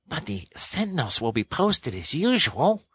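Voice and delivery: high-pitched rat voice; high, pointed storybook Rat; Rat objecting. A narrator's reading. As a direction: raise a quick objection in a high character voice.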